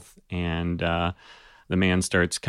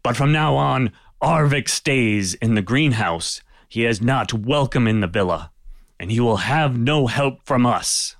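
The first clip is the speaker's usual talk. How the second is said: a lightly voiced Viking chieftain, a touch higher and firm; stern Viking lord; 4 semitones higher than usual. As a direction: lay down the verdict with mild authority. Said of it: "he's like".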